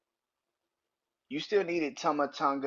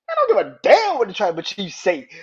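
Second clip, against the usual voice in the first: loud, higher defiant yell; defiant shout; 8 semitones higher, 11 dB louder than usual. Retold or imitated. Jey yelling defiance about the Tribal Chief. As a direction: shout it back in his face. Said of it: "And Jay was like".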